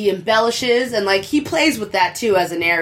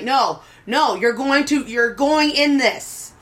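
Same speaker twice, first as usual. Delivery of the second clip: raised pitch, drawn-out ending; insistent protest; 5 semitones higher, slower than usual. Acted. Player protesting to the dwarf who just wants friendship, insistent. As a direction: refuse to take no for an answer. Acted protest to flirting character.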